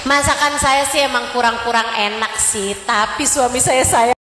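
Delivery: low, smug voice of a self-satisfied wife, slowing at the end; mock a wife bragging about her marriage; boastful proud wife. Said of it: "dia ngerasanya". (istri sombong yang membanggakan diri)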